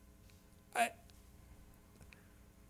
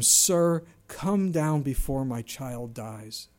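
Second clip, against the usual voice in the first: pleading father; much slower than usual. Acted. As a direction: beg as if your child is dying. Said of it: "Can you feel this man's pain".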